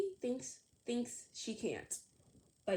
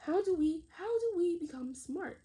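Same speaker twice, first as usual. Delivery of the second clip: lively teacher question, raised and louder; teacher asking class; 7 semitones higher, 6 dB louder than usual. A narrator's reading. Teacher asking her class how to become smart, brightly. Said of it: "asked Miss Marley".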